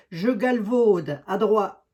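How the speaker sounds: drawn-out Lorraine regional accent. Shown as a demonstration. Host joking with viewers about her holidays, Lorraine accent. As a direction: stretch it slowly in a Lorraine accent. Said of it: "avec mon accent lorrain".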